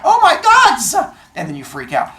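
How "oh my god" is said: very high, loud, slow OMG; a wailing scream; high drawn scream. Shown as a demonstration. Teacher redoing the reaction to Athena, slower. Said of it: "Two different ahs".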